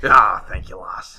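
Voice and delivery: put-on Scottish pirate accent. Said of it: "I'm not going pirate anymore".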